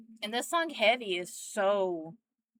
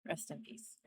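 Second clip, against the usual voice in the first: "Rest in peace" whispered, much softer and unvoiced; whispered farewell; 3 semitones lower, 11 dB quieter than usual. Real, not acted. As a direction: breathe "Rest in peace" as a soft goodbye. Farewell to the late singer.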